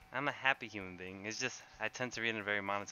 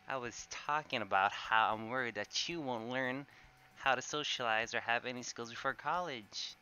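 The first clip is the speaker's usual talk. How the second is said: higher, hammed-up earnest reading of the line; dramatic reading; 3 semitones higher, 6 dB louder than usual. Shown as a demonstration. Streamer reading a game line to chat, dramatic and heartfelt. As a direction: act it out like a worried friend pleading. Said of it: "You want a dramatic reading?".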